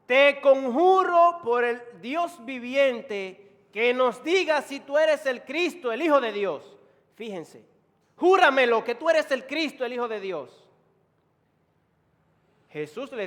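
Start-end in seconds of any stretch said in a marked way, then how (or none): 0.0-6.8 loud, high solemn adjuration; interrogating priest, forceful and high; high priest's demand. Acted. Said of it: "el sumo sacerdote le dijo". 8.2-10.7 loud, high insistent demand; forceful interrogator, easing at the end; high priest demanding oath. Acted. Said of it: "el sumo sacerdote le dijo".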